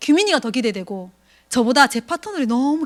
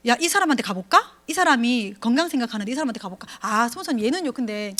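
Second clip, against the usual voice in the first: reluctant partner voice; 4 dB quieter than usual. Retold or imitated. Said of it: "이렇게 얘기해".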